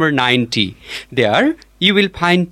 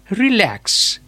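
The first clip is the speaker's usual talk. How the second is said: "relax" with the second syllable stressed; stress on LAX in "relax"; 4 semitones higher than usual. Shown as a demonstration. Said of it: "The stress lies in the lax".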